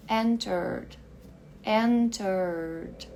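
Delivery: entered said as enterd, no extra syllable; entered sem o E final; E dropped. Shown as a demonstration. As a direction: end entered on a plain d. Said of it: "esse E aqui sumiu".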